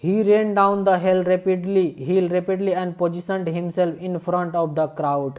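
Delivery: slow, deliberate read-aloud of the English text; slow story reading. A narrator's reading. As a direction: read each phrase slowly, as if to a class.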